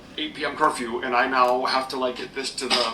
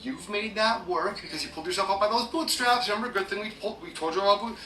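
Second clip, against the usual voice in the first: imagined smug others; 6 semitones higher than usual. Retold or imitated. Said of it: "in their mind, they're like".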